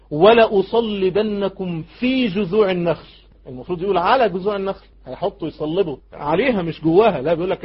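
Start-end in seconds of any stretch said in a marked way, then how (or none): 0.1-3.1 slow, emphatic recited threat; Pharaoh's threat. Acted. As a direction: draw the threat out, weighting each word. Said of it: "يقول لهم ايه". (تهديد ممدود بتأكيد)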